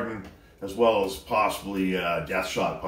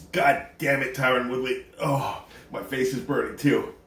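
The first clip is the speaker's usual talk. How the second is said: pained cursing; 4 semitones higher than usual. Real, not acted. Mouth burning, blames fighter.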